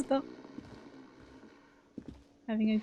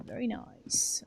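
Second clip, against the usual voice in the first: whisper; 3 semitones higher, 7 dB quieter, slower than usual. Real, not acted. Whispered remark.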